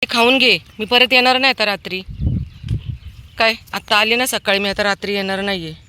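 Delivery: high, loud fond scolding of the dog; coaxing a pet. Real, not acted. Feeder scolds Lali fondly to eat before she leaves, high loud pet talk. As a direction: coax and mock-warn the dog to eat up.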